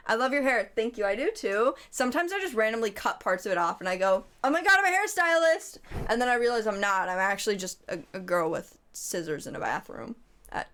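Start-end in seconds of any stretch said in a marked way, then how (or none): 4.4-5.8 high, hammed-up self-delighted cry; mock excitement. Streamer imitating self after cutting hair, mock excitement. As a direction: exclaim it in mock revelation. Mocks own late-night haircut delusion.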